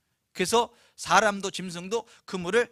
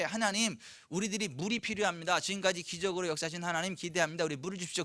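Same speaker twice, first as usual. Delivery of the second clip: softer, calm prayerful request; oración confiada; 6 dB quieter than usual. Acted. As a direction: ask God gently, letting the volume sink. Models a trusting prayer to God.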